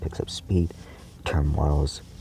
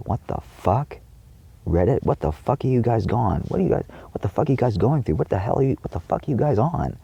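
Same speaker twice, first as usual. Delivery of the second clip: high, exasperated yelling; angry yelling; 7 semitones higher than usual. Real, not acted. Ranting at Reddit users, yelling in outraged disbelief. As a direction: yell in disbelief, pitch up. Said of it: "I yelled very loudly in this video".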